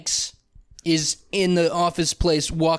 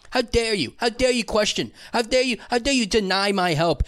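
mock indignation; 6 semitones higher than usual. Acted outrage at the woman.

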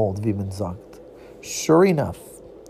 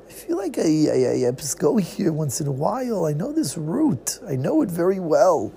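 puzzled inner voice; 3 semitones higher than usual. Acted. Character thinks aloud, puzzled.

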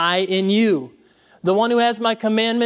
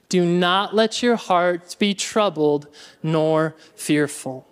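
slow recitation; 2 semitones lower, slower than usual. Shown as a demonstration. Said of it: "Y'all ready?".

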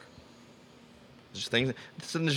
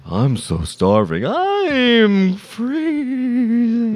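shivering voice; 9 semitones higher, 3 dB louder, much slower than usual. Pretend. Voicing Cold Gavin.

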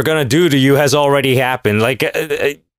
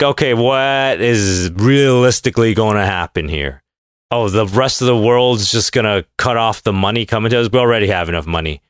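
smug Russian officials; 5 semitones lower than usual. Pretend. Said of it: "they're like".

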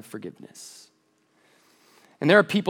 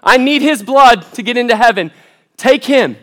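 loud, high mob cry; crowd yelling; 7 semitones higher, 10 dB louder than usual. Retold or imitated. Preacher voicing the crowd at the cross, shouting high. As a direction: shout it like an angry mob demanding blood. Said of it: "we're in that crowd yelling".

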